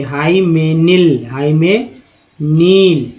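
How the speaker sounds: हाइमेनिल said slowly, syllable by syllable; slow demo pronunciation. Shown as a demonstration. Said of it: "देखिए". (धीमा उच्चारण)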